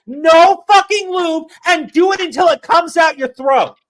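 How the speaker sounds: ranting back at the critics, loud and angry; furious rant. Retold or imitated. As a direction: let the rage spill out. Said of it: "You're like".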